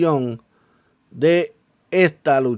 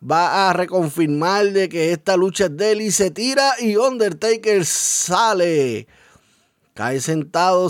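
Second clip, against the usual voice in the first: ordinary talk, nothing marked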